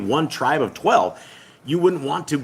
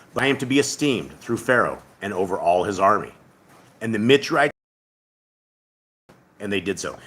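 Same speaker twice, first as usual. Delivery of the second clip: scripture reading. Acted. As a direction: read the passage like a solemn recitation. Reads scripture aloud to viewers.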